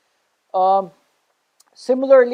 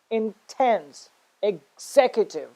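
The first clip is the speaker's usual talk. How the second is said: intense and executive with TENSE and ZEC stressed; stress on second syllable; slower than usual. Shown as a demonstration. Teacher giving more stress examples, second syllable of intense and executive stressed. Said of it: "the one that starts immediately after A".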